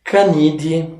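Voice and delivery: Canide with the ending said "dee"; pronúncia latina. Shown as a demonstration. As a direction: say Canide with no "ai" at the end. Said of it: "em latim a gente pronuncia D". (Canide com final "di", à latina)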